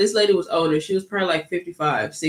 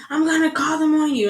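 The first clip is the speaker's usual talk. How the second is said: imitated threat; 9 semitones higher, 3 dB louder than usual. Angry lady threatens police.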